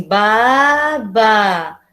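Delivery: Baba drawn out syllable by syllable, ba-ba; dragged syllables. Shown as a demonstration. A teacher imitating a child reading Baba, syllables dragged. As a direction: spell out Baba slowly, each syllable stretched like a beginner. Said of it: "aquela fala arrastada".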